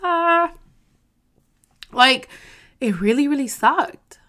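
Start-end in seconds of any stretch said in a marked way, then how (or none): 0.0-0.5 mock cry. Real, not acted. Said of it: "I wanna cry".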